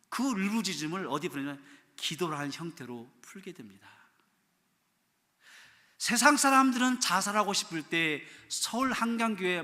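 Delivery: ordinary delivery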